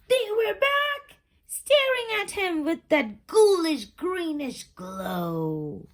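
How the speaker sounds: high, loud alarmed cry; startled reveal. A narrator's reading. Narrator jolting listeners at the return, alarmed. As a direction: gasp it out as if they jumped at you. Underwear returns, spooky climax.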